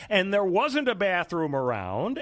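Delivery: high, slow, whiny excuse; whiny woman voice. Retold or imitated. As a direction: mimic a defensive woman. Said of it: "along the lines of her saying".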